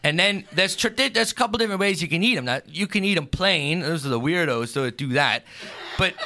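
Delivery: homey, lightly put-on Pennsylvania Dutch accent. Explaining how to fry Fastnachts, mild Pennsylvania Dutch accent. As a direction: tell the recipe like a Pennsylvania Dutch farmer. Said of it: "just a heavy accent".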